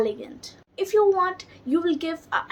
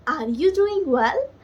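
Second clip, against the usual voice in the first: "Are you doing well" lilting up to a rising end; rhythmic, musical; 3 semitones higher, 4 dB louder than usual. Shown as a demonstration. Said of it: "So this is a rhythmic sound".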